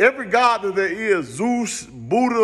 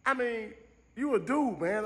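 hushed aside; 4 semitones higher, 11 dB quieter than usual. Retold or imitated. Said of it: "I'm like".

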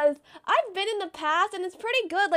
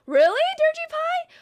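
high incredulous whine; 12 semitones higher, 4 dB louder than usual. Real, not acted. Reacting to a chat comment.

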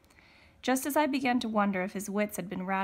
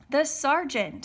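high, loud alert; urgent warning; 6 semitones higher, 6 dB louder, slower than usual. A narrator's reading. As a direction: warn the men of an officer coming. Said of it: "someone warned".

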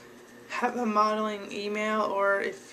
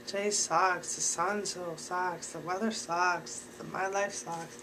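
mock gloomy whining; 4 dB quieter than usual. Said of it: "Don't come in there and be like".

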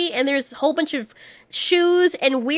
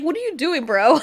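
laughing. Retold or imitated. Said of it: "I love how the thing is like".

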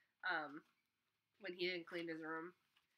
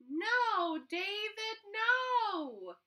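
high, loud scolding mother's cry; fed-up mom yelling at her son; 9 dB louder, much slower than usual. Acted. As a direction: call it out like an exasperated mom. Mom scolding in picture book.

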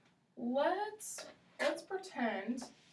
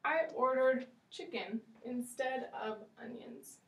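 polite customer; 3 semitones higher than usual. Shown as a demonstration. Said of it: "we could say".

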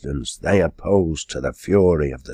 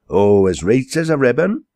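cheerful boasting Giles; 7 semitones higher, 4 dB louder than usual. Acted.

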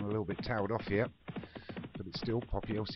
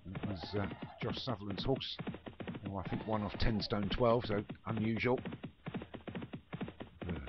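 live play-by-play calling the runners; race commentary. Acted. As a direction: call the field like a racecourse commentator.

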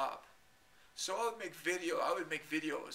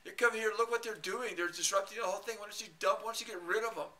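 higher, louder urging to the monitor; mock pleading; 6 semitones higher, 3 dB louder than usual. Urging the moderator to ban the disruptors. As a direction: egg the moderator on. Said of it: "I kept telling the monitor".

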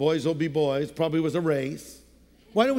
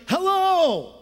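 much higher, grand and formal hello; the big formal greeting, not a casual one; a lofty, ceremonious hello; 11 semitones higher, 4 dB louder than usual. Shown as a demonstration. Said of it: "sort of casual and low-key".

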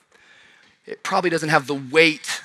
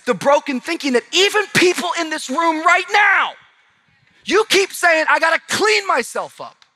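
high, loud impassioned preaching; voicing the congregation's excuses, preached loud; preaching at full force; 9 semitones higher, 5 dB louder than usual. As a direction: build it up from the pulpit.

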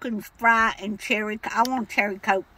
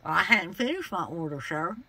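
put-on cranky old lady voice; 6 semitones lower than usual. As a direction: play a stubborn old woman customer. Caller holds an old lady voice.

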